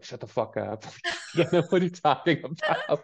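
laughing through a mock snap. Jughead brushing off Kevin, laughing mock snap.

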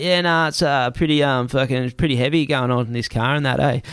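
casual, slightly hammed-up Aussie slang. Taxi passenger hinting at trouble to a friend by phone, Aussie slang. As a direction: play it as offhand Aussie slang. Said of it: "I try to switch to Australian slang".

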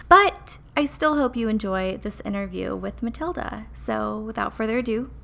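stuffy, nasally voice. Real, not acted. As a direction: speak with a blocked nose. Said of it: "I do apologize for my nasally voice".

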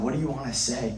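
softly asking God in prayer; a quiet, intimate question to God; hushed prayer. Retold or imitated. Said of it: "I was just asking God".

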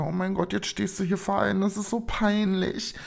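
hushed inner panic. Retold or imitated. Embarrassed inner thought in class.

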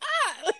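high-pitched mock "ah"; yelp of pain. Retelling Carter hit on the head, high mock yelp. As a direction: imitate a man yelping when hit.

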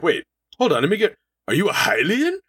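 a prince abruptly welcoming the hero he just turned away; sudden eager welcome. Retold or imitated. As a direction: flip from cold to fawning host. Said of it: "that's how fast it changes".

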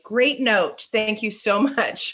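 breezy, laughing thanks; airy gracious brush-off; breezy confidence. Retold or imitated. Wishing to answer a teacher's note, breezy. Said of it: "go back and just say".

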